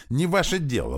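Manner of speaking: angry high squeal at the rival. A narrator's reading. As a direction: shriek it like an offended fiancé. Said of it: "взвизгнул он".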